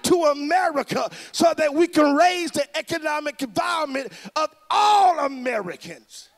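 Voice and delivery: fiery preacher rousing the crowd; preaching at full force. Real, not acted. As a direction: preach it loud and rising to the crowd.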